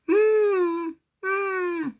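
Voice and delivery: high whimpering hum; injured dog whimper. Shown as a demonstration. Storyteller imitates the injured wolf's high whimper. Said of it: "a bit like this".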